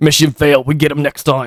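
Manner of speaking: deep, acted game-style voice. Showing the others how deep the voice can get: deep Call of Duty voice. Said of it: "I can get it deep like here".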